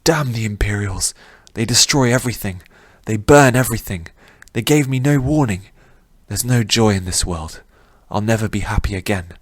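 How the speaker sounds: anguished youth cursing the Imperials; despairing young man. Acted. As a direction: rail at the world, then give up. Rin raging in the nightmare.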